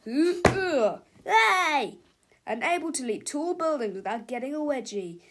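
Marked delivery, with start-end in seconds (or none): 0.0-2.0 high, loud yelp; startled shout. Acted. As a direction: call out in alarm. Bystander shouts.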